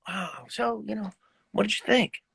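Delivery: soft, modest little question fishing for praise; self-effacing. Retold or imitated. Musician asks girlfriend after his recital, self-effacing and soft. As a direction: play it humble, quietly hoping for a compliment. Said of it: "in my most self-effacing".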